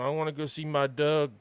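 Baltimore accent, lips barely moving; black Baltimore accent. Shown as a demonstration. Showing how black Baltimoreans talk, Baltimore accent. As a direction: say it in Baltimore dialect, mouth hardly open. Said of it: "black Baltimoreans talk, they barely move".

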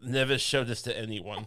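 a muted hint of Herzog's German accent; understated creepy German accent. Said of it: "in his creepy German accent".

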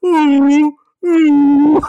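a rapper's take on a cat meowing; guttural cat meow. Retold or imitated. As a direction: do a big cat with phlegm in his meow. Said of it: "So it's real guttural".

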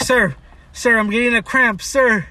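retold cramped-up complaint; acted pleading. Acted plea from the back seat.

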